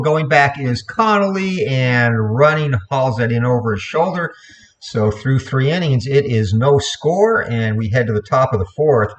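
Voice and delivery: lively baseball radio call; announcer calling each pitch; play-by-play. Acted. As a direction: call the game live like an old-time radio announcer. Live play-by-play continues.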